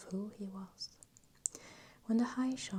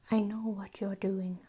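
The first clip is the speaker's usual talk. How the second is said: louder, restrained snarl; near snarl; 7 dB louder than usual. A narrator's reading. Thrall warns the shaman off, close to a snarl. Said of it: "His voice close to a snarl".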